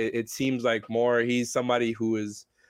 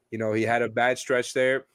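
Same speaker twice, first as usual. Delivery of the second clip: stuffy, nasal cold voice. Real, not acted. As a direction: talk through a blocked nose. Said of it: "excuse my nasal voice".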